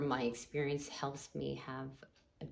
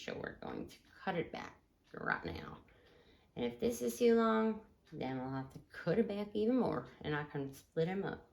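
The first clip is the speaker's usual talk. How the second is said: cowboy talk; 4 semitones higher than usual. Pretend. Host wrapping up the show for listeners, playful cowboy talk. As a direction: lightly put on a cowboy twang. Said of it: "talking like a cowboy".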